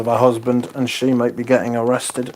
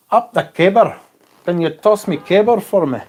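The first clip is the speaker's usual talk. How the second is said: raised, higher call up the cable; 7 semitones higher, 5 dB louder than usual. Retold or imitated. Reading a chat line aloud, called out loud and high. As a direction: shout the line up to someone on a pole.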